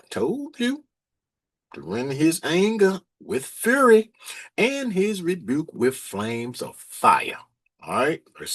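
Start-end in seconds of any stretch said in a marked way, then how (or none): 1.7-7.4 preaching scripture. Acted. Preacher reading Isaiah to the congregation, slow and emphatic. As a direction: read the prophecy slowly, with weight.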